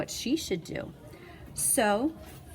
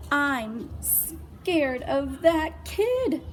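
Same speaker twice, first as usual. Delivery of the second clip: put-on scared kid voice; 6 semitones higher, 3 dB louder, much slower than usual. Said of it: "said Carrie".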